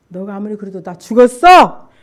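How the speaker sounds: measured insistence, loud on the last word; firm retort. Retold or imitated. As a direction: hold your ground without screaming. Firmer answer to devil's taunts.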